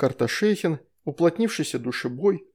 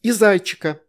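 higher, a touch louder rebuke; mild scolding sister; 6 semitones higher, 6 dB louder than usual. A narrator's reading. Astrid telling Veronika off, higher and sharp. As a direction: scold your little sister.

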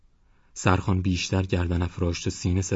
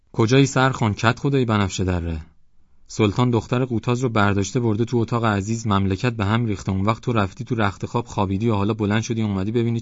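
raised, reproachful complaint; reproachful villager; 4 semitones higher, 3 dB louder than usual. Acted. Villager reproaches the headman, raised and upset. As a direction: shame the headman for sleeping.

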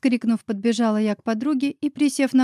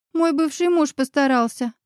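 mild bitter anger; 4 semitones higher than usual. Acted. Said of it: "зло проговорила Оля".

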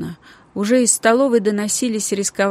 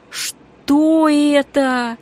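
high, slow frightened question; girl spotting the dead rat, frightened and drawn out; 8 semitones higher, 5 dB louder, much slower than usual. A narrator's reading. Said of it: "испуганно спросила она".

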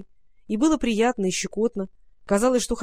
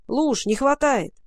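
calling out; 3 semitones higher, slower than usual. Acted. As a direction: call out to Lusha, worried. Boy calling out at well.

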